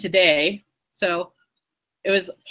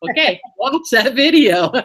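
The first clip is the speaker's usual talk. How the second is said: louder, higher teacher reply through a laugh; laughing mock instruction; 3 semitones higher, 5 dB louder than usual. Teacher replaying her answer to students who finished early, laughing. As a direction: mimic yourself telling students, laughing as you go.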